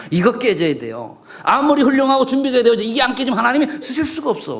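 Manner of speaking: fervent pulpit delivery, pushing hard; full-force preaching. Acted. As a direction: drive it home to the congregation.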